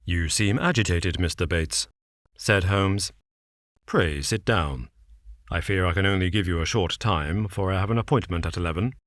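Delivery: a hint of a cool, measured detective. Holmes lays out the case to Watson, calm and measured. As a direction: set out the facts calmly, a shade low.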